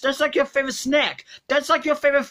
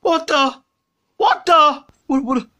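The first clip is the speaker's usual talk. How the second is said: shocked outburst; 5 semitones higher than usual. Acted. Donut missing, shocked outburst.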